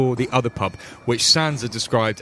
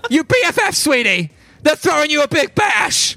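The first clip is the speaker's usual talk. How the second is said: high, bright and gushing; excited NPC voice; 7 dB louder than usual. Acted. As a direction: squeal it out like a thrilled friend. NPC cheers at party news.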